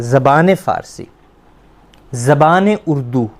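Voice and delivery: each ज़बान said as zabaane, slowly; slow izafat demo. Shown as a demonstration. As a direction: link ज़बान to the next word with a drawn-out e. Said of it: "इसको इजाफत कहते हैं".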